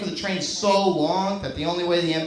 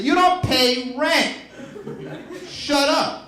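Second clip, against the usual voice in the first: snotty retort; 8 semitones higher, much slower than usual. Pretend. Mock retort to a kid.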